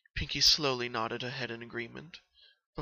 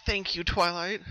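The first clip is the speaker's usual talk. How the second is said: soft thanks; 6 semitones higher, 5 dB louder than usual. Acted. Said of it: "giving a soft smile back".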